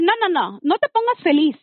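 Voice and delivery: cutting off his happiness, reenacted; imitating her own urgent no-no-no; retold firm refusal. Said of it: "cuando lo escucho feliz, le dije".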